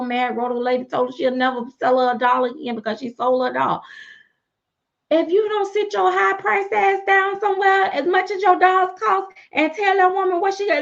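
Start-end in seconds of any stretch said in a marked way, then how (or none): 5.1-10.8 raised-voice lecture at the pricey artist; heated rant. Acted. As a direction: tell her off, pitched way up.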